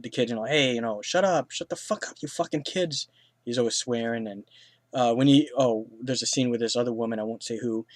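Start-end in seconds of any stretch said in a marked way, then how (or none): 0.4-3.1 higher-pitched imitation of a cranky old man; mock angry yelling. Wheelchair guy swearing at his kid, mock angry. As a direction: snap at the kids in a hammed-up voice. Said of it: "He's telling his kid".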